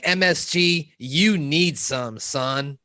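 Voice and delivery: drawn-out, slow casual slang reading; slangy reading. Shown as a demonstration. Host reads a viewer's comment as slang, slowly drawn out. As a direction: stretch it lazily, like street slang. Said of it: "I took it more as, like, slang".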